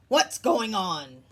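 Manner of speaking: confused Jim. Acted. Jim confused, voiced in story.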